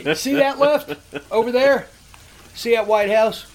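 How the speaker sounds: taunting sing-song. Retold or imitated. Taunting the caller.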